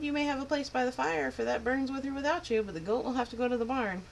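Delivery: a lightly voiced crafty innkeeper.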